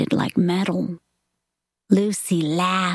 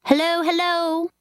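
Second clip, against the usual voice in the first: hollow, as if from a well; 9 semitones higher than usual. A narrator's reading. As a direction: call out as if from the bottom of a well. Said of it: "as if she had fallen into a well".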